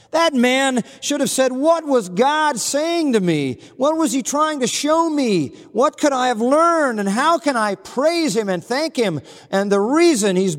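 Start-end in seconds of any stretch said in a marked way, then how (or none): 1.5-9.2 imagined humble prayer. Retold or imitated. What the bitter man should have prayed.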